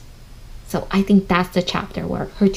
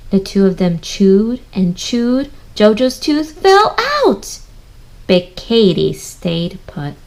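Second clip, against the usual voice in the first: storybook reading; 3 dB louder, slower than usual. Acted. Slow expressive reading to children.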